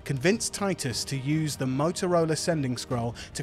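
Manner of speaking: steady story recap narration; previously on recap. A narrator's reading. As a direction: narrate the recap over music.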